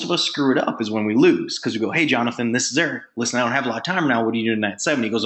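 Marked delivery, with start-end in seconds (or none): 1.9-5.0 quick, businesslike phone invite; in a hurry. Shown as a demonstration. Caller hurrying through an invite to Jonathan, rushed. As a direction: rattle it off as if short on time. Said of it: "be in a hurry".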